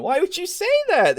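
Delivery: high, laughing why would you say that; incredulous laughing question; laughing disbelief. Real, not acted.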